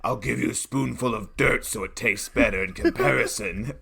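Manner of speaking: put-on goblin nanny voice; hobgoblin nanny. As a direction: threaten the kid as a monster Mary Poppins. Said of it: "the hobgoblin's like".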